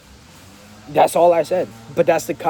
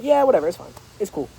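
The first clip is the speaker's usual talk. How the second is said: dismissive; 3 semitones higher than usual. Shown as a demonstration. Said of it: "You gotta be like".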